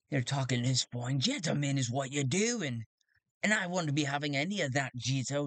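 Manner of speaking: lawman voice, a touch quick; gruff sheriff. Acted. Sheriff siding with Sven against Jito, gruff. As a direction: dismiss him like a sheriff. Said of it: "the sheriff's like".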